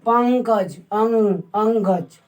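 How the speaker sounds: पंकज, then just the ang of अंग; पंकज taken apart to expose the ng in अंगज; ng sound shown. Shown as a demonstration. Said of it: "तो इसमें अंग का उच्चारण हो रहा है".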